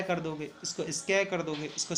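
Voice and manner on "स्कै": स्कै said as a short "skae" instead of "skaai"; the mistaken स्कै, short "skae"; wrong pronunciation. Shown as a demonstration. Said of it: "ऐसे नहीं होगा ना".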